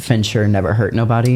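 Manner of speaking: ordinary talk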